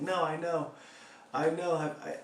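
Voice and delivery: high, giggly mock admission; imitating a roommate cracking up; laughing admission. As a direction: sputter it through laughter. Roommate laughing, admits knowing.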